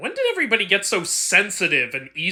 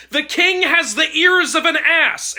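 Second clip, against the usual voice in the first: screaming; 8 semitones higher, 5 dB louder than usual. A narrator's reading. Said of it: "and screamed into it".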